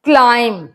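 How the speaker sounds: "Climb" as "clime", no B sound; silent B. Shown as a demonstration. Teacher reads out an example word, "Climb" with silent B. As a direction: say "Climb" ending on M. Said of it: "बी silent है".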